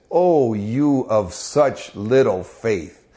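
slow, drawn-out reproach; chiding. Retold or imitated. Jesus chides the frightened disciples, slow and reproachful. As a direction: scold them slowly and sadly. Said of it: "he chided them".

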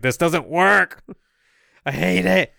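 put-on slow, lightly Welsh-accented complaint; a hint of a Welsh actor whining. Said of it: "Christian Bale in his Welsh accent's like".

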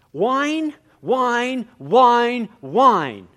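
high, whiny drawn-out word; whining. Shown as a demonstration. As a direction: whine the word itself. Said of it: "he starts to whine".

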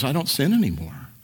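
a hint of a self-assured churchman; mimicking him. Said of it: "what he was saying was".

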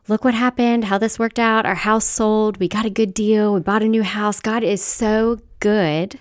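lightly mock a gushing churchgoer. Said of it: "or I see this a lot".

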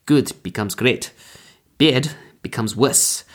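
put-on slow, hammy German accent as a villain; bad German accent. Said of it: "my terrible attempt at a German accent".

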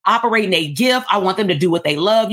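light up about the outcome; excited client. Acted. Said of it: "and then you get excited".

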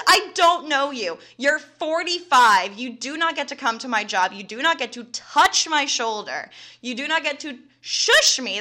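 firm and fed up, each line hit hard; indignant telling-off. Retold or imitated. Telling off the professor who touched her shoulder, loud indignant scolding.

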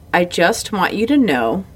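slow, each word carefully shaped; old man in the laundromat reassuring a crying mother, slow and clear; slow and articulated. Retold or imitated. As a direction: speak gently and deliberately, old man comforting. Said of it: "very slowly, very, like, art-, very well articulated".

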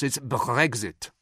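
put-on slow French-accented Brexit. Comedian imitating French leaders saying Brexit, French accent. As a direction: say it's Brexit slowly the French way. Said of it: "In France".

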